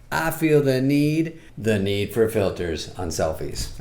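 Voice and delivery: slow, dramatic movie-line delivery; Top Gun quote. Retold or imitated. Comic quoting Top Gun's famous line. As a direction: intone it like a famous film line. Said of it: "sayings from the old Top Gun".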